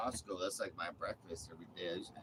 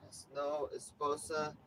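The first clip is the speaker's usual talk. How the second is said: a joking bit of broken Spanish; mock Spanish. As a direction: play to the Spanish-speaking audience. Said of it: "That's for my Spanish speaking audience".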